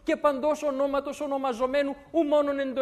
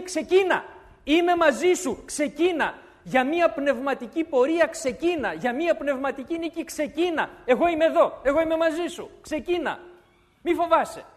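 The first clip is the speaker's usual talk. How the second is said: God's encouragement; 4 semitones higher, 5 dB louder than usual. Acted. God voiced urging believer.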